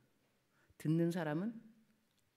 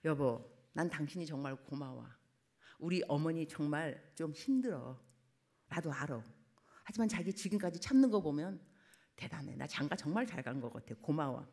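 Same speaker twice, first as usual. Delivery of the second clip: tender husband; 3 semitones lower than usual. Retold or imitated. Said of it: "이런 말 들으면 좋죠".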